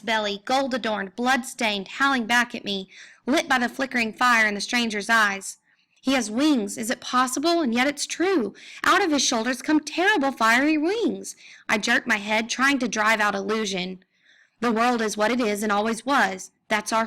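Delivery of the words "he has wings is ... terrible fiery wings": awestruck. Acted. Grendel awestruck at the stranger.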